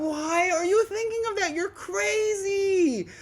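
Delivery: high, loud and slow, half laughing; laughing mock outrage at a friend; laughing disbelief. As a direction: wail it out through laughter. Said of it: "I'm like".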